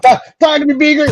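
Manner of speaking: high squeaky Muppet call; Muppet pilot voice. Acted. Host voicing Top Gun with Muppets, high squeaky call. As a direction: shout it up high like a puppet.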